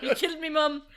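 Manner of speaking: silly theatrical outrage; mock villain wail. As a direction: whine it like a wronged movie villain.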